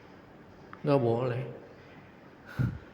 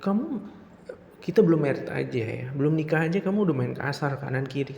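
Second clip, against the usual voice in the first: indignant protest; 2 semitones higher than usual. Acted. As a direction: scold her for hitting you. Protesting being hit.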